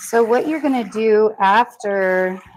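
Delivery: out of breath mid-sentence; winded, catching your breath; after a workout. Real, not acted. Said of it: "I'm also catching my breath".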